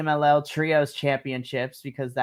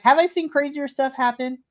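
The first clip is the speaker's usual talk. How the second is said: incredulous; 10 semitones higher than usual. Retold or imitated. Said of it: "I was just like".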